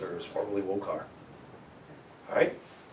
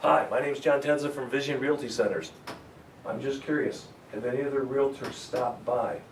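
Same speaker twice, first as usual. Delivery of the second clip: friendly door pitch. Shown as a demonstration. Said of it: "You see the distinction right away?".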